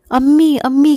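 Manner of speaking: put-on desperate girl calling her mother, voice rising. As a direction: call out to her dying mother in a panic. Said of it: "کہہ کر پکارنے لگی".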